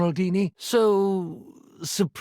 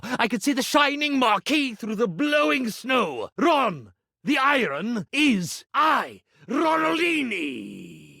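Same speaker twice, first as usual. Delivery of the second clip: higher and rousing, painting a vision; grand proclamation; 4 semitones higher than usual. Acted. Iron dreaming of his homecoming tour, grandly proclaiming. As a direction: proclaim it like a marquee in lights.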